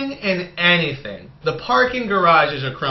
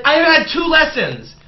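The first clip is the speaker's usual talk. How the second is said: mock nervous pilot; 9 semitones higher than usual. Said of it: "And he's like".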